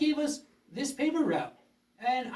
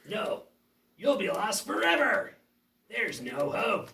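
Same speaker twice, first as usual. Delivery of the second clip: menacing villain. Acted. Villain taunts despair.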